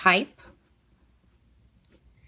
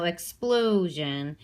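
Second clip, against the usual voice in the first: "explosion" with the "plo" drawn out; stress on middle syllable; much slower than usual. Shown as a demonstration. Teacher finding the natural stress in a word, middle syllable stressed. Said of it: "stress here in this middle syllable".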